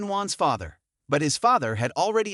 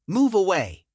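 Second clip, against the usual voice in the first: crying out; 3 semitones higher, 3 dB louder than usual. A narrator's reading. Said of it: "crying out".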